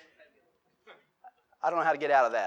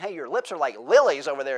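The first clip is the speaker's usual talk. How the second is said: mock pickup line; 5 dB louder than usual. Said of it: "I wouldn't recommend you say that".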